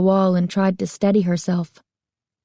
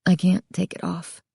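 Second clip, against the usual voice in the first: sad; 4 dB quieter than usual. A narrator's reading. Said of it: "he told her sadly".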